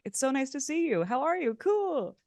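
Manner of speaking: high, loud, bubbly hello; gushing greeting. Retold or imitated. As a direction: gush like seeing an old friend. Gushing Chicago friend greeting.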